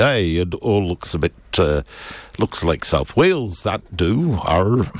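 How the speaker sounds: a lightly put-on Yorkshire voice, half-hearted; mock Yorkshire explorer accent that drifts off; bad Yorkshire accent. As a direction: play James Cook in a hammed-up but thin Yorkshire accent. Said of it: "that's totally the wrong accent".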